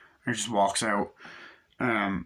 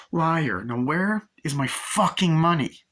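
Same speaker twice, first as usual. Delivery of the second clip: raised, slow mock-villain demand; angry demand; 7 semitones higher, 5 dB louder, slower than usual. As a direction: demand it slowly and forcefully, as the villain. Acting out villain demanding money.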